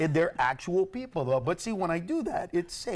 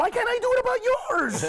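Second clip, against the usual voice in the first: laughing challenge; 6 dB louder than usual. Real, not acted.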